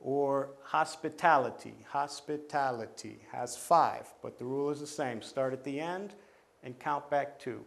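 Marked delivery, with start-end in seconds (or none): 0.6-3.2 "hospitality" stressed on TAL; stress on third syllable. Shown as a demonstration. Teacher demonstrating the rule, stressing TAL in "hospitality". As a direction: lean on TAL each time in "hospitality". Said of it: "that's where the stress is".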